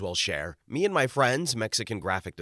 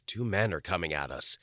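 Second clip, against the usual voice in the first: fearful; 5 semitones lower, 3 dB quieter than usual. Retold or imitated. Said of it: "in a very fearful voice".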